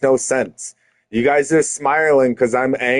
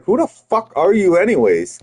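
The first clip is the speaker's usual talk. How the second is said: retold indignant challenge, somewhat raised pitch; getting mad; 4 semitones higher than usual. Speaker challenging the family friend who offered a bribe, getting mad. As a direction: demand answers with mounting irritation. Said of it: "that's when I started really getting mad".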